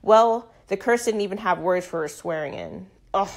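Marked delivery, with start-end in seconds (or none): 3.1-3.3 whoop. A narrator's reading. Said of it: "I whooped".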